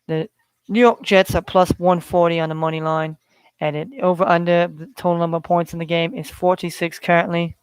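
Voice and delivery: lightly put-on English accent; a hint of mock English while reading betting lines. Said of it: "English accent".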